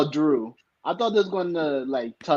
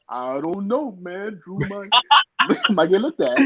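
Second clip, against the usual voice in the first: dumb jock voice; 4 semitones higher, slower than usual. Retold or imitated. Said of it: "he wasn't talking like that".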